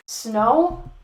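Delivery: mildly disbelieving, rising question; incredulous question. Acted. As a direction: query it in disbelief. Incredulous reaction, repeated and escalating.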